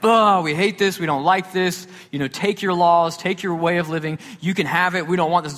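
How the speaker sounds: mock grumbling, pitched a bit high; acted-out annoyed complaint; angry grumbling. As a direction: imitate a crowd griping back at their leader. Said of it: "So they're grumbling. They're angry".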